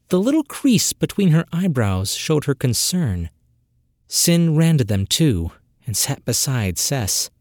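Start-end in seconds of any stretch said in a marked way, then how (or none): none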